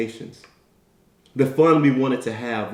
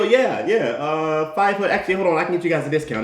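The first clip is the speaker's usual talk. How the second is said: smug registrar; 2 semitones higher than usual. Retold or imitated. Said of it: "And they go".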